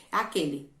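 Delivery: aquele said akeli, the last e as i; final e as i. Shown as a demonstration. Teacher asking pupils to listen: aquele ending in i. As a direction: point out the i at the end of aquele. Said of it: "Preste atenção".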